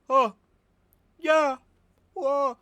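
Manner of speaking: high, loud showy vocal ad-libs; mock rock star yelps. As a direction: belt out fake concert whoops, way up high. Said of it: "kinda goes".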